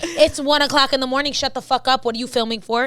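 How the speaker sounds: mock grandma yelling at night; grandma yelling at the grandkids at one in the morning, mock-angry. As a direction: play the angry grandma scolding the kids. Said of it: "in Spanish".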